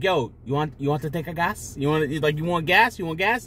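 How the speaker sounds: rough attempt at a Jamaican accent, questions rising; imitated Jamaican accent. Joking content creator offers others gas, mock Jamaican accent. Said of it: "I'm horrible with the fucking accent".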